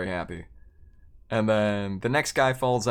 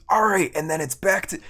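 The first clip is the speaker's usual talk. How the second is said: raised, louder game-host call; host's announcement; 9 semitones higher, 6 dB louder than usual. Retold or imitated. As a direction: imitate a host briskly moving the round along.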